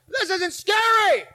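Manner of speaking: scoffing inner voice. Retold or imitated. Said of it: "I thought to myself".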